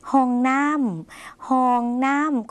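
slow, drawn-out word for learners; teacher's slow dictation of a word; slow model reading. Shown as a demonstration. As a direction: read the new word out slowly, twice. Teacher models new word slowly.

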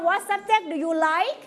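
What subject do you like with pitch dropping at the end; falling question tune. Shown as a demonstration. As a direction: read What subject do you like letting the voice fall on like. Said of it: "เสียงเราต้องเหินสูงไหม". (อ่านว่า What subject do you like ลงเสียงต่ำท้ายประโยค)

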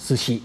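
"ซูชิ" said as in Japanese, both vowels short; Japanese-style short "ซูชิ"; Japanese pronunciation. Shown as a demonstration. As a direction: say "ซูชิ" with two short syllables. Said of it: "ออกเสียงให้เป็นภาษาญี่ปุ่น".

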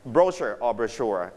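brochure first as BRO-sher, then as bro-SHURE; two accepted pronunciations. Shown as a demonstration. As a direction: contrast brochure stressed first, then brochure stressed last. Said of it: "You can pronounce it like".

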